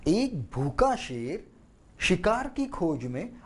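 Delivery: slow एक भूखा शेर with weight on शिकार; storyteller stressing the hunt. Shown as a demonstration. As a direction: land firmly on शिकार. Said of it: "मुझे शिकार पर भी जोर देना चाहिए".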